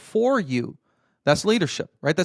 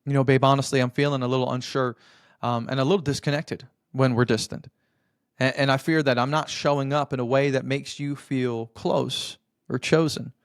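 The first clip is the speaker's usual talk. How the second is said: calm and humble; 3 semitones lower than usual. Shown as a demonstration. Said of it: "listen to the same moment using this framework".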